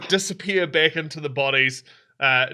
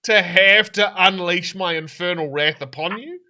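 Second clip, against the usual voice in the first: loud, raised demonic threat; menacing threat; 4 semitones higher, 7 dB louder than usual. Acted. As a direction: threaten them with your wrath. Demon threatens infernal wrath.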